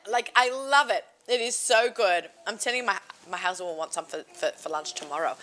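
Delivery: talking with a mouthful; words around a bite of food; mouth full. Real, not acted. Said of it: "have cholent in your mouth".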